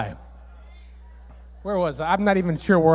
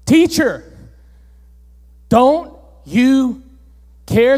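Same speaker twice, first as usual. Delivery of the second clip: mock shout; 2 semitones higher, 5 dB louder, slower than usual. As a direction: cry out like frightened disciples. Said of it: "woke him up shouting".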